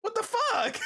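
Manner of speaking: high-pitched retold outburst of disbelief; acted disbelief. Retelling how the recorder walked away without answering, incredulous. Acting reaction to being ignored.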